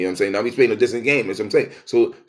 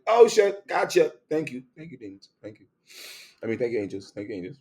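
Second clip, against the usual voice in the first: realization; 3 semitones higher, faster than usual. Retold or imitated. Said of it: "I'm like".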